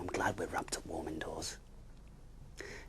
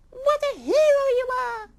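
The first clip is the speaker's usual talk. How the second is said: admiring sigh; 15 dB louder than usual. Acted. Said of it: "sighed Missus Rabbit Bun".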